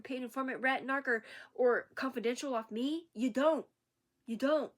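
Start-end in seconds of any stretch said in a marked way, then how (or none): 3.1-3.7 louder firm denial; you don't, said louder and firm; defiant. Real, not acted. Defiant retort, repeated. 4.3-4.7 louder firm denial again; you don't, said louder and firm; defiant. Real, not acted. Defiant retort, repeated.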